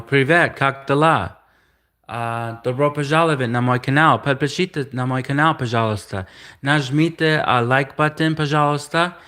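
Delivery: showing off spoken Russian. Shown as a demonstration. Demonstrating his Russian to viewers, in a YouTube intro style. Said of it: "now I speak Russian".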